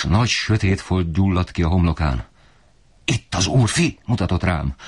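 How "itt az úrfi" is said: scornful father. Acted. Father points at son angrily.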